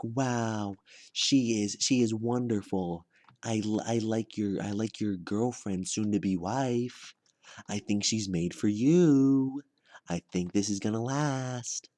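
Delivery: slow, drawn-out gushing approval; lightly voiced mom. Mom approving of her son's girlfriend, lightly voiced gushing. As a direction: coo slowly like an impressed mother. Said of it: "my mom will see her and she'll be like".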